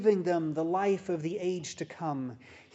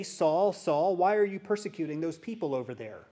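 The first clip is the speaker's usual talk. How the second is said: quick, offhand call of Saul, first Saul loud; rattled off as the false quote; what Jesus did not say, tossed off quickly; mock wrong version; 3 dB louder than usual. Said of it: "He did not say".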